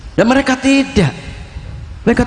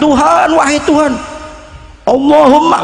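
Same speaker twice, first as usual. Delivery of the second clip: frantic shouting prayer; 8 semitones higher than usual. Retold or imitated. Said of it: "Teriak-teriak".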